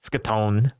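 "Skatone" with skin squashed to ska; "Skatone" copied from a text-to-speech slip; mimicked mispronunciation. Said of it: "why does he say it like that".

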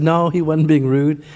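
low, slow defence of a friend; calm reassurance. Retold or imitated. Pastor calmly defends the man.

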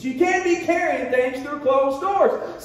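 slow, shouted repeat, "can't" punched; preaching shout. Shown as a demonstration. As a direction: preach it out to the room. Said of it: "teaching moments".

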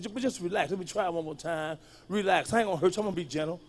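soft seductive reassurance; soothing hush. Retold or imitated. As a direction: coax her gently, nearly whispering. Soothing her in bed.

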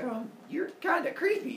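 high-pitched acted woman's reply; high, wary little brush-off; put off. Acted goddess answering a creepy suitor.

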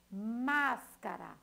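Máscara said slowly, más-ca-ra, every syllable opened wide. Shown as a demonstration. Teacher dictating to pupils, slowly sounding out Máscara. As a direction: give the class time to hear each part. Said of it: "dividir ela nos pedacinhos de acordo como você abre a boca".

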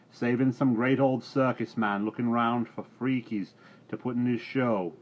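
loud, high furious farmer; angry shout. Acted. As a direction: berate the old fool at full voice. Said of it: "shouted another voice".

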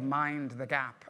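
"mind the gap" drawn out slowly, each word separate; teaching the Tube phrase to the class, slowly; slow, spelled-out mind the gap. Shown as a demonstration. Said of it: "it's called".

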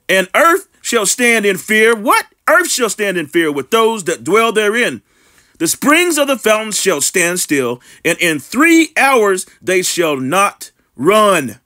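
slow, deliberate Bible reading; slow preacher's scripture read. Acted. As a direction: read the verse out slowly, weighing each phrase. Reads scripture aloud.

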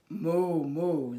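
a hint of a cow's moo; lightly lowing moo; playful cow sound; mock moo. Cow says magic word.

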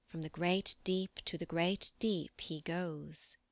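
put-on old riddle in measured triplets; riddling verse. A narrator's reading. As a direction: intone it as Merlin's cryptic rhyme. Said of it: "answered me in riddling triplets of old time".

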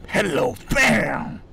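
slow, high drawn-out "hello, bang"; catchphrase shout. Pretend. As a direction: stretch out the taunt before shooting. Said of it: "나 꼭 헬로우 하고 쏘겠어".

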